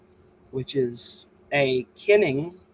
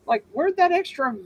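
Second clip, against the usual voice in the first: 1 exasperated author; 10 semitones higher than usual. Retold or imitated. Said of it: "And I'm like".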